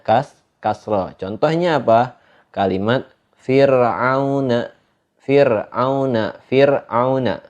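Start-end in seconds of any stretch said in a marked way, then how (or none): 3.4-7.4 Fir'auna with a light, thin r; slow model reading of Fir'auna, thin r. Shown as a demonstration. Teacher showing sukun example, thin ro in Fir'auna. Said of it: "ro-nya itu dibaca tipis".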